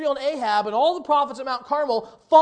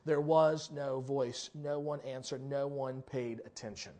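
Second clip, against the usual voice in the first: slow, quiet, falling refrain; slow solemn refrain; 10 semitones lower, 11 dB quieter than usual. Acted. Preacher dropping to a hush on silence of Baal. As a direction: let each line land heavy and soft.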